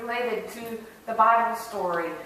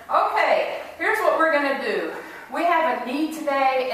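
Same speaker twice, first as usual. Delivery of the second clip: inspired preacher; 5 semitones higher, 3 dB louder than usual. Acted. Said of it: "he felt especially inspired".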